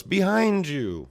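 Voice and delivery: high, loud, slow shrill warning; fairy warning the swordsman of attack. Retold or imitated. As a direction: cry out the warning in a tiny voice.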